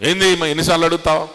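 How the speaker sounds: hammed-up annoyed disciple; picking a quarrel. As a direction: pretend to snap back, how many times. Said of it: "తగాదా చేసుకోవాలా".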